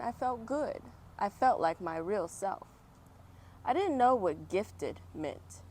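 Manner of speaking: lively first-person storybook reading; story narration. Acted. Reading Oprah's story aloud to children, storybook voice. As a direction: read it like story time for kids.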